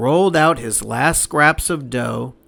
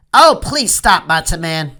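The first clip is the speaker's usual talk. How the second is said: cooing; 2 semitones higher, 3 dB louder than usual. Acted. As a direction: sweet-talk him to stop. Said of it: "cooed Auntie Bertha".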